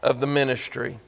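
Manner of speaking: loud pleading quote, slow; shouted plea. Retold or imitated. Church begging Paul to let them give, shouted plea. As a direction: beg it out at full voice. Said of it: "they begged".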